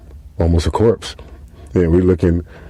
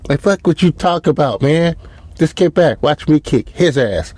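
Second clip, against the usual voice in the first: cocky Ukraine; 8 semitones higher than usual. Retold or imitated. Lil Ukraine brushing off advice.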